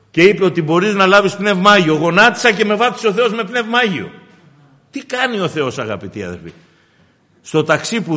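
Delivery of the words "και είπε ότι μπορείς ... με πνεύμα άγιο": raised, fervent retelling; excited pulpit delivery; impassioned testimony. Retold or imitated. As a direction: preach the testimony with rising force. Preaches a listener's testimony.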